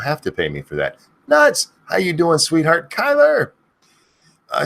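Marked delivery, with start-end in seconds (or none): 1.3-1.7 high piercing yell; screamed name. Acted. Streamer screaming a viewer's name, shrieking loud. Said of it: "have me scream your name". 2.9-3.5 high piercing yell; screamed name. Acted. Streamer screaming a viewer's name, shrieking loud. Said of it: "have me scream your name".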